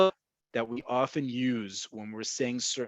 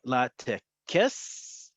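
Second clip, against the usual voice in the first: slow demo. Shown as a demonstration. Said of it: "all the more reason we don't use this".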